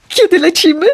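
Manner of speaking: put-on high, eager boy asking. A narrator's reading. Ikar asks his father when they fly, eager and high. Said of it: "tylko tyle chciał wiedzieć Ikar".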